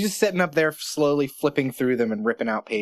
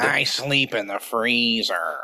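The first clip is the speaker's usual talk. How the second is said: gruff lunch lady; slower than usual. Pretend. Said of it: "stereotypical lunch lady".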